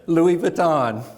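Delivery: laughing French brand name. Retold or imitated. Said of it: "she's only learned two words".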